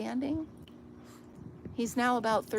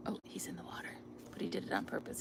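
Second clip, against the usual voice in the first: whispering; 9 dB quieter, faster than usual. Real, not acted. Whispering about neighbor.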